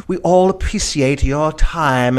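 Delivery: slow, drawn-out mock British accent; measured fake British delivery. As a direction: imitate a put-on British accent, unhurried. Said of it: "she's in this, like, British accent".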